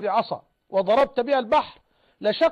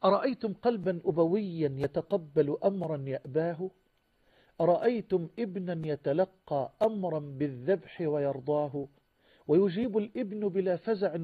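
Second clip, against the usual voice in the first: poem recitation; 3 semitones lower than usual. Acted. Preacher reciting verses of Abraham's sacrifice to listeners, solemn poem recitation. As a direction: draw out each rhyme, sinking low at the close.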